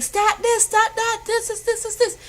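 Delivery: high-pitched, rapid-fire orders; urgent, repetitive mock commands; frantic doctor. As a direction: imitate a doctor going crazy in an emergency. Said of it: "the doctors are, like, going crazy".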